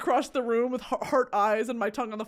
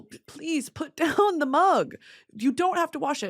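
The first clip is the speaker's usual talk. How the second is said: higher, fussy pleading voice; mock fussing host; 4 semitones higher than usual. Imitating people fussing over her, a higher mock plea. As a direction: play the polite host begging her to stop.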